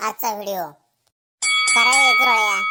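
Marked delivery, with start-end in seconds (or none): 1.4-2.6 loud, slow, drawn-out taunt; a schoolboy loudly picking a fight; loud jeering taunt. Acted. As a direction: call him out loud and slow to pick a fight. Schoolboys trading insults.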